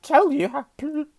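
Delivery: high, loud, slow stutter; stammering Quirrell. A narrator's reading. Nervous professor grasps Harry's hand, stammering. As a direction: force each word past the stammer. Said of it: "stammered Professor Quirrell".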